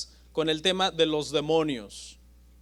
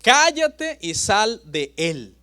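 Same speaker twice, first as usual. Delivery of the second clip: slow, firm command to the demon; measured stern order; stern rebuke; slower than usual. Acted. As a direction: rebuke it slowly, word by word. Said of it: "pero Jesús le reprendió diciendo".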